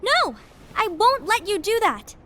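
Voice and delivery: pleading protest. Acted. Refusing to let spirits die.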